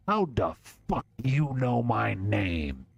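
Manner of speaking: gunman demands how the stranger knows him; menacing gangster. Acted. Gangster Hans questions the boy.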